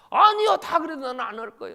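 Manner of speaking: 높고 크게 강하게 우기는 말투; 절대 안 한다고 소리 높여 맞서듯; 베드로의 항변. Acted. 베드로가 부인 안 한다고 항변. (예수께 큰 소리로 항변하는 베드로)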